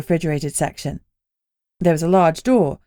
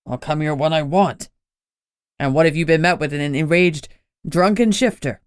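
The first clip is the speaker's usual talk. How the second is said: brothers bickering; 2 semitones lower than usual. Acted. Gunnar and Lenny arguing.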